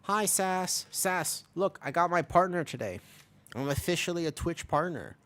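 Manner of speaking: high, excited greeting and news; excited announcement. Real, not acted. Streamer telling Sass about becoming a partner, excited.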